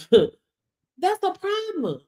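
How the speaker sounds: very slow, laughing "That's a problem"; drawn-out laughing. Real, not acted. Mocking viewers who won't say it, slow and laughing. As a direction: stretch it out through a laugh.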